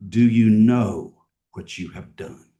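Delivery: a hint of a loud, stern God. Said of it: "I'm wondering if God raised his voice".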